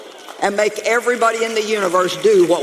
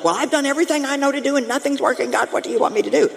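fast, exasperated rush of words; frustrated plea; 5 semitones higher, faster than usual. Retold or imitated. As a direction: blurt it out, fed up and at your wit's end. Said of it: "we say that in frustration".

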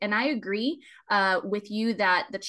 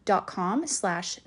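spelling it out slowly; slower than usual. Shown as a demonstration. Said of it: "P A T R E O N".

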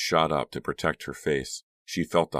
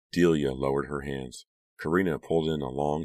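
ordinary delivery, nothing marked

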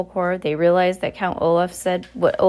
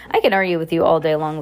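growling; 4 dB louder, faster than usual. Acted. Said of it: "the villain growled".

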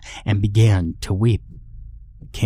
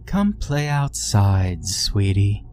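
gentle calling voice; slower than usual. Acted. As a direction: coax her outside, slowly. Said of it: "the familiar and gentle voice called".

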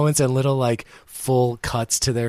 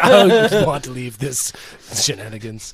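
laughing while quoting; 6 dB louder than usual. Retold or imitated.

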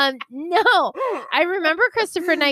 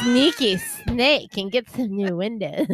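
bad TikTok reenactment; slower than usual. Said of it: "I'm not even doing a good job reenacting it".

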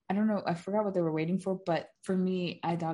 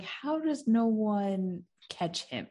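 higher, slow incredulous question; disbelief; 4 semitones higher, slower than usual. Retold or imitated. Retelling a reaction to Scream, incredulous. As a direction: stretch it out in baffled disbelief. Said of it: "that was just disbelief".

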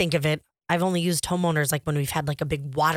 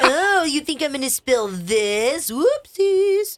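mock clumsy brother; 8 semitones higher, 3 dB louder, slower than usual.

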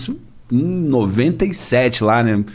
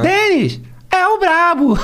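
high, slow hype announcer; DJ drop voice; slower than usual. Retold or imitated. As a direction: call it out like a funk DJ tag. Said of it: "carimbando as músicas".

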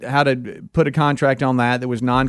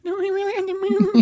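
laughing while talking; words through a laugh; nervous laugh; faster than usual. Real, not acted. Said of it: "laughing through line".

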